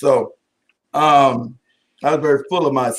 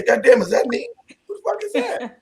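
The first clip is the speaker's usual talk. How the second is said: shocked at mirror; 6 semitones higher than usual. Retold or imitated. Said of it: "walk by the mirror and say".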